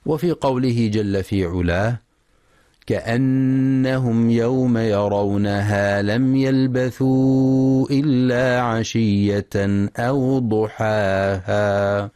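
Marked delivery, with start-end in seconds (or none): 2.9-12.1 slow, measured tajweed chant; Quran recitation. Acted. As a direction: recite it slowly and melodically.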